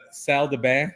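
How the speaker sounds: "Salle de bain" with flat English vowels, no French lilt; "Salle de bain" pronounced flat, sal-duh-bane; flat anglicized French. Shown as a demonstration. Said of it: "I pronounce it really flat".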